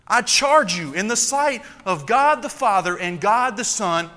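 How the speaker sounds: fervent preaching. Acted. Pastor pressing the charge on ministers, fervent preaching. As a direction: drive the charge home.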